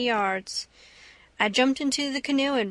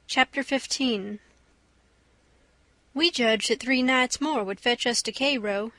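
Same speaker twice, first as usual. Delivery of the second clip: plain reading voice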